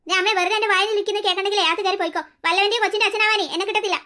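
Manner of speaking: a man laying down the law to a troublemaker; stern Gopalan. Acted. Gopalan scolds Sumi. (സുമിയെ താക്കീത് ചെയ്യുന്ന ഗോപാലന്റെ കനത്ത ശബ്ദം)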